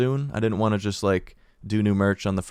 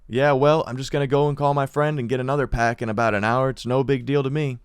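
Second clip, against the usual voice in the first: defiant retort; 3 semitones higher than usual. Retold or imitated. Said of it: "I'm fucking furious".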